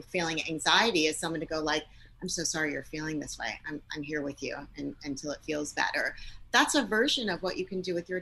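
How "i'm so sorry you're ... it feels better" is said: soft comforting. Shown as a demonstration. Comforting an anxious spouse.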